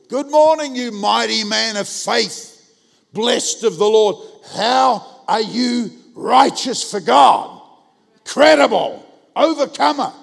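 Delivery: loud, high, drawn-out hammed-up proclamation; overblown, ringing church greeting; booming greeting. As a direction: call out lavish praise from across the room. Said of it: "I start at the door".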